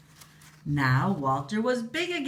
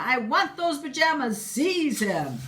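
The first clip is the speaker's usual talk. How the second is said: commanding queen; 9 semitones higher, 3 dB louder than usual. Acted. Queen orders soldiers.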